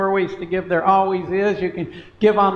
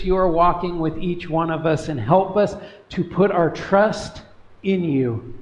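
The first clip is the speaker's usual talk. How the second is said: earnest prayer. Acted. Leads a prayer.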